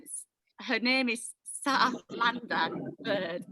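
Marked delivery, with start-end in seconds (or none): 1.6-3.4 South London attempt, drawn out; attempted London accent. Host reads a viewer's name, clumsy London accent. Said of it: "I can't do that".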